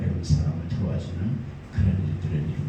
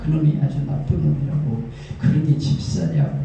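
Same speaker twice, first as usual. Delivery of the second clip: imitated grumbler, raised pitch; indignant complaint; 4 semitones higher than usual. Rival deacon denouncing the other to the pastor, indignant. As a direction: act out a worked-up accusation.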